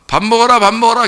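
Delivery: mother calling across the yard. Retold or imitated. Mother calling child to eat.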